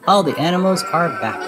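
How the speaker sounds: bursting with good news; excited Minnie. A narrator's reading. Minnie announcing the animals are back, thrilled. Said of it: "shouts Minnie".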